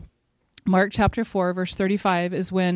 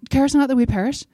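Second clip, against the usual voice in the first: higher, louder frightened cry; panicked plea; 6 semitones higher, 4 dB louder, faster than usual. Retold or imitated. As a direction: cry out like men sure they'll drown. Frightened disciples crying to Christ.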